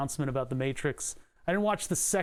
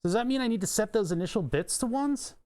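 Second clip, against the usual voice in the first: normal talking voice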